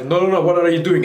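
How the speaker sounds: fast, panicked no no no; a touch of hurried alarm; alarmed cry. Retold or imitated. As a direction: rush it out in alarm. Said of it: "She's like".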